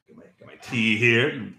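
talking while sipping tea; sipping hot tea. Real, not acted. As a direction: tea cup at the lips. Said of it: "slurping noises".

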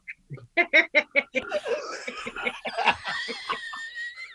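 long shrieking laugh; high shrieking laugh. Real, not acted. Laughing at own photo.

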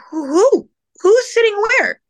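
high, loud, incredulous question; loud high-pitched bafflement; baffled retold questioning. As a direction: demand an answer in bewilderment. Retold baffled reply to father.

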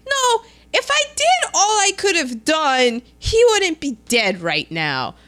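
high-pitched start, falling at the end; mock exasperation; retold angry retort. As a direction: act out a frustrated comeback. Acted retort in retold story.

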